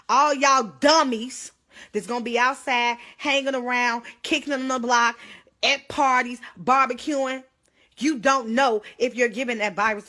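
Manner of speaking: fired-up warning to people partying; scolding shout. Real, not acted. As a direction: scold the partiers loudly. Scolding partygoers on a live stream.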